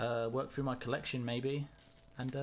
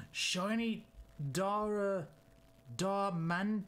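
a gasp, then higher, delighted "Shiny"; surprised gasp into a higher word; gasped surprise; 6 semitones higher, much slower than usual. Real, not acted. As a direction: catch your breath at the find. Gasps at shiny card.

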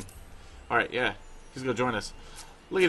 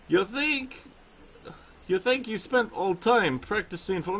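put-on light Russian accent, pitched higher; 4 semitones higher than usual. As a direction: voice the bear trainer with a Russian accent. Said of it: "I'm gonna give him a Russian accent".

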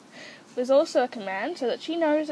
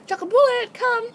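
high, repeated coaxing call to an animal; pitched-up pet-training voice; 8 semitones higher, 5 dB louder than usual. Shown as a demonstration. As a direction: call your pet over in short high phrases. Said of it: "starts saying".

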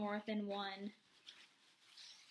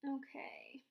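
whisper; 2 semitones higher than usual. Real, not acted. Teacher whispers aside.

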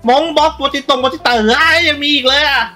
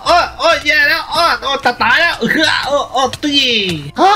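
mock dying yell. Dying to turtle attack, yelling.

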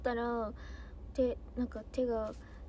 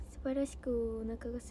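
softer, lower mock-solemn whisper; 4 semitones lower, 6 dB quieter than usual. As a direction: whisper it as a joking confession. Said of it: "なんて。". (冗談めかしたささやき声)

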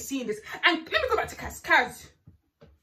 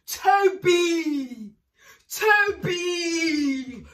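angry shout; much slower than usual. Real, not acted. Shouting at contestant.

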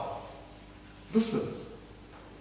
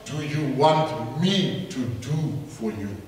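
tender question; 6 semitones lower, 3 dB quieter, slower than usual. Acted. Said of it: "I hear Jesus saying".

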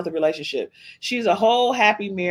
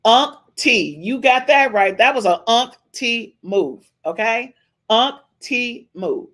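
high, loud cheer for the comeback; excited shout-out; hyped approval; 5 semitones higher, 4 dB louder, slower than usual. Real, not acted. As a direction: hype up the host's move.

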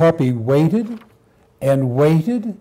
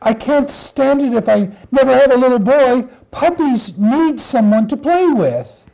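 higher, pleading puppy voice; sad little puppy; 4 semitones higher than usual. Acted. Puppy told no boys are to be had, pleading puppy voice.

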